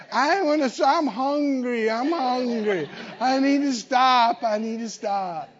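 a hint of a whiny child; lightly whined complaints; mild child's whine; whining kid. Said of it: "decided to whine".

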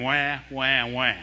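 low, drawn-out fake baby wahs; mock crying. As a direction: imitate a whiny wah. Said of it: "I think that's what he's hearing".

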